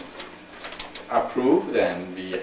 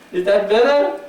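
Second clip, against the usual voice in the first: robot voice; 11 semitones higher, 8 dB louder than usual. Pretend. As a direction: speak like a stiff robot. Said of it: "I can even talk like a robot".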